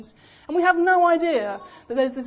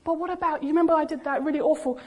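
higher, hurried worried objection, lightly acted; protesting child; 4 semitones higher, faster than usual. A child reminding the Father of past wrongs, mildly anxious protest. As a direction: cut in with a quick, pitched-up protest.

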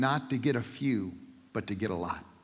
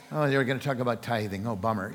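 a low, soft, deflated sigh of a voice; disappointed churchgoer; 5 semitones lower, 4 dB quieter than usual. Retold or imitated. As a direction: sag like someone dreading a tithing sermon. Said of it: "You know, like this".

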